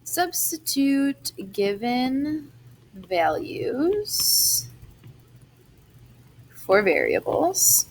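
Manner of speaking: slow, word by word dictation. Shown as a demonstration. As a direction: spell it out slowly for note-taking. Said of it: "dictating notes slowly".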